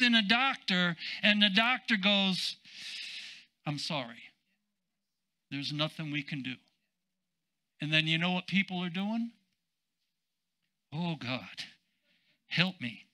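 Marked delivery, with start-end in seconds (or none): 3.6-6.6 low, soft doctor's apology, acted; hushed bad news. Doctor telling a patient nothing can be done, acted hushed apology. 10.9-13.1 low, soft helpless prayer, acted; feeble mock plea. Preacher mimicking people who got bad news, feeble mock plea.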